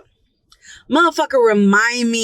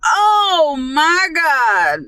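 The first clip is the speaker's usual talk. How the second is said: dread; 5 semitones higher, much slower than usual. Retold or imitated. Horrified at the roach.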